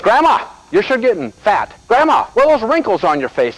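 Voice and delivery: put-on high, childlike voice of a young daughter; a lightly voiced little girl; imitating little girl. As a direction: pipe it up like a blunt kid.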